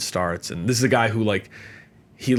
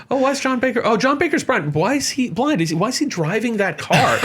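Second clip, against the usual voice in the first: high, astonished laughing voice; mock the double take, pitched way up; hammed-up shock at a blind driver; startled bystanders; 13 semitones higher than usual.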